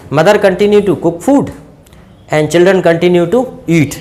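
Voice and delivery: very slow, word by word; measured classroom dictation pace. Shown as a demonstration. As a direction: read it out slowly for the class to copy. Teacher dictates English model sentence.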